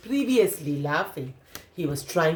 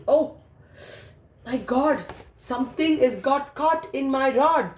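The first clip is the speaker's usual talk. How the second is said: higher, eager cry of surprise; excited fisherman; 5 semitones higher than usual. Acted. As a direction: sound thrilled something bit. Man feels a tug on line.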